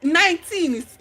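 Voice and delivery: high, loud disbelief; can you believe it; stunned outrage at the price; incredulous. Real, not acted.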